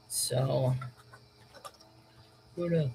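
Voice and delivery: talking through a yawn; words stretched by a real yawn. Real, not acted. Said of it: "Sorry, I'm yawning".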